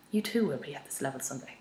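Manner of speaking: grand, lofty pronouncement; poncy. Acted. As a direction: say it like a lofty sage. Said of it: "that sounds a bit poncy".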